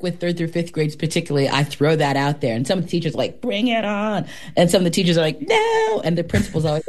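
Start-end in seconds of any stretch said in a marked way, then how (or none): 3.4-4.3 higher-pitched imitation of game teachers; imitating someone up for a battle; mock eager challenge. Acts out teachers taking the challenge. 5.4-6.0 very high, drawn-out no; hammed-up high-pitched protest; mock horrified refusal. Acts out teachers refusing.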